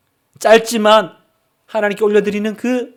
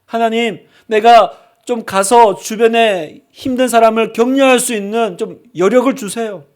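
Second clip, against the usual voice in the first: commute prayer. Acted. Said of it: "출근하는 차 안에서 기도해야 되죠".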